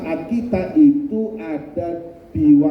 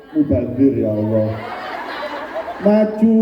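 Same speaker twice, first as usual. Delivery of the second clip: comic torn prayer, half laughing; mock dilemma. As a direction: play the torn pious man for laughs. (doa bingung yang dibuat lucu, setengah tertawa)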